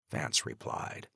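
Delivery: ordinary delivery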